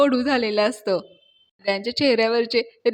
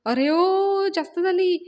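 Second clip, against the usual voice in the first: high, drawn-out cry of alarm; alarmed yell; 8 semitones higher, 4 dB louder, slower than usual. Acted. Friend calling out from behind as she adds too much tea, yelling. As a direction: call out high to stop someone. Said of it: "मागून ओरडायला लागते".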